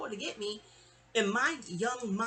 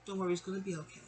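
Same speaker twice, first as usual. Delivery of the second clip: softer, hushed reassurance; gentle whisper; 6 dB quieter, faster than usual. Retold or imitated. Teacher comforting a tearful girl, soft and hushed. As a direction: soothe a crying child quietly. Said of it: "she just whispers to me".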